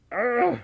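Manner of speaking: sudden loud burp; real burp, mid-stream. Real, not acted. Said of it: "so sorry about the burps".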